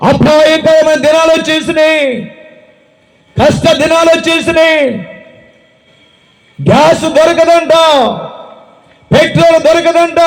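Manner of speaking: preacher voicing God's warning. God's warning of hard days.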